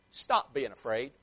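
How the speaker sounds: slow, mildly exasperated "what's wrong with you" tone; a touch of reproach, each word drawn out. Acted. Jesus to his frightened disciples, mildly exasperated. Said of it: "The tone of voice that I tried".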